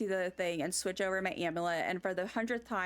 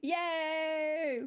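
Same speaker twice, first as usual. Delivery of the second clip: cheer; 5 semitones higher than usual. Real, not acted. Cheering a plush drop.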